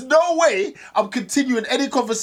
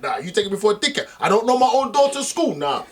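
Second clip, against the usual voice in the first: imagined storm-off. Retold or imitated. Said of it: "but I'm like".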